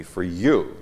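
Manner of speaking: "you" punched with a pitch jump; stress on you. Real, not acted. Teacher reading a psalm aloud, stress on "you". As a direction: lean hard on the word "you". Reads pronoun he calls emphatic.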